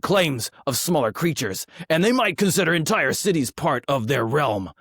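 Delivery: orc reciting lore. Acted. Host reading dragon lore to the guest, orc voice. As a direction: read it like an orc warlord. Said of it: "This is my orc voice".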